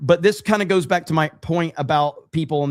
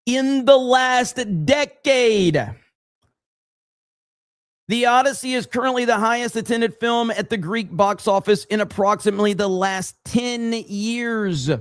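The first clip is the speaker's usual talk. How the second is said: reading aloud haltingly; 5 semitones higher than usual. Shown as a demonstration. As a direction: read it out word by word for a slow listener. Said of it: "I'm gonna read it slowly for you".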